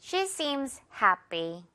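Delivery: slow model sentence, happy with a light airless py; unstressed tense p. Shown as a demonstration. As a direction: stress hap in happy and drop py. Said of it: "뒷부분은 강세 없다 보니까".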